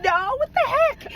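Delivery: high, slow, indignant what the heck; mock-offended, drawn out; outraged disbelief. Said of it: "I'm like".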